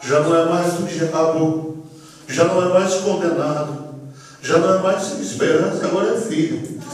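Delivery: imitated pastor's measured, mounting declaration; solemn pronouncement rising. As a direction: build steadily towards the acceptance. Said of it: "o pastor olha pra mim e diz assim".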